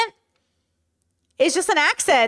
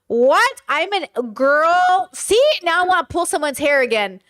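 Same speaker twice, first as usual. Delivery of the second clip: higher, incredulous indignation; fired-up disbelief; real outrage; 5 semitones higher than usual. Real, not acted. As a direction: react appalled, pitched up and emphatic. Outraged reaction to hijab story.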